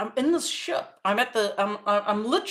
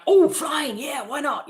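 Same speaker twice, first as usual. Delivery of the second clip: higher, louder burst on the first words; eager agreement; 5 semitones higher, 4 dB louder than usual. Retold or imitated. Four-year-old answering playmates' invite to fly, eager. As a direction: jump at the offer like a keen kid.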